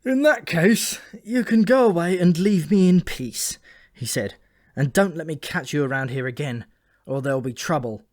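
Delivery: high, loud false bravado; a loud show of toughness nobody believes. Acted. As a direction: puff up and order him out. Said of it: "This bravado didn't convince anyone".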